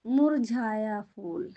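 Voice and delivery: മുർജായ ഫൂൽ spelled out slowly, syllable by syllable; slow teaching read. Shown as a demonstration. Teacher to pupils, modelling the phrase slowly. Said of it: "എന്താണ് പറയുന്നത്?".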